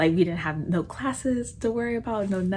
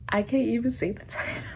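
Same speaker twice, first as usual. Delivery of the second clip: laughing; 4 semitones higher than usual. Real, not acted. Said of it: "without laughing".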